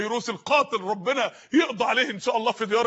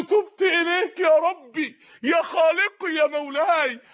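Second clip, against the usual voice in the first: tearful plea; 5 semitones higher, much slower than usual. Pretend. Repentant youth praying to God.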